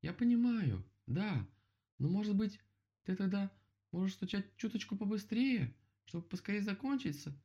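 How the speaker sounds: high-pitched shouted request; calling up. A narrator's reading. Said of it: "крикнул ему Мишка".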